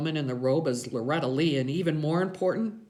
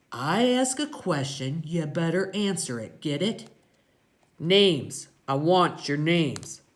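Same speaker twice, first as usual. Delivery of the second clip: raised, deliberate biker boss; intimidating gang-boss voice; Iggy, threatening; 4 semitones higher, 5 dB louder than usual. A narrator's reading. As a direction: demand answers, hitting the last words hard.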